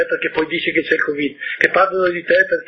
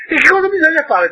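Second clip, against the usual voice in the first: high, louder curious ask; eager question; 12 semitones higher, 5 dB louder than usual. Acted. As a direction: push the vain man eagerly. Prince asking the vain man.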